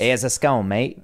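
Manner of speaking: badly faked English accent; bad British accent. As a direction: imitate an Englishman offering food. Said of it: "every accent that would just happen here was bad".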